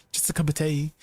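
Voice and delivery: put-on playful British accent, "tea" stretched to "tay"; mock British accent. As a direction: ham up a British cup of tea. Mocking British tea phrase.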